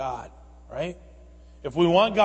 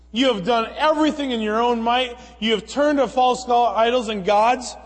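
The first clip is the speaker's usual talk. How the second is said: higher, louder mock rebuke from God; voicing an upset God; 6 semitones higher, 4 dB louder than usual. Preacher voicing God confronting his people, raised and stern. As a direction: scold them as God would. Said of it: "God is saying".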